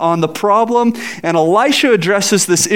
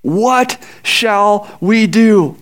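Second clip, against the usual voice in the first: fearful question; 3 semitones higher, much slower than usual. Acted. Servant's question repeated dramatically.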